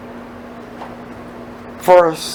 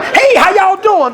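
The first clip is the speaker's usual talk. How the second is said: higher, slow, breezy put-on hello; mock breezy greeting; 8 semitones higher, slower than usual. Preacher mocks a sick man greeting everyone, breezy put-on voice. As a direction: play the oblivious sick man waving hello.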